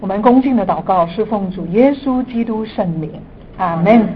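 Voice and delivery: earnest prayer voice. Acted. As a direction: pray fervently, building to emphasis. Opening prayer before teaching.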